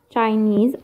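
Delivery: "Chinese" with weight on the final NESE; stress on last syllable. Shown as a demonstration. Teacher giving a suffix example, stress on the end of "Chinese". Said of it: "last syllable".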